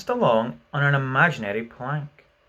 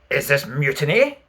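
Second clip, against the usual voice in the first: pleasantly; 6 dB louder than usual. A narrator's reading. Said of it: "more pleasantly than ever".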